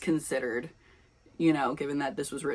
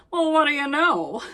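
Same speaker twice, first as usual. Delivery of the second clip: smug high voice; 10 semitones higher, 6 dB louder than usual. Acted. Rehearses the line in voice.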